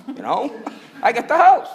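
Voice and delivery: laughing. Retold or imitated. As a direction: laugh at the bitter joke of it. Finds his house emptied.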